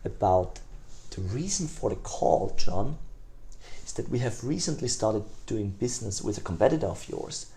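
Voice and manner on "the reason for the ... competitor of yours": scarcity tonality. Shown as a demonstration. Salesman to prospect on a cold call, softer and lighter. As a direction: drop the energy and make it sound special. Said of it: "I flipped this tonality".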